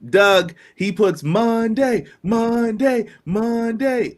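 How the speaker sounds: loud, slow, high hype announcer; monster truck announcer. Acted. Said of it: "Monster truck announcer voice".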